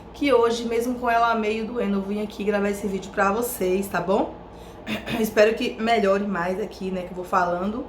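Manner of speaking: hoarse from a sore throat; rough, strained throat voice. Real, not acted. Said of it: "fica rouca".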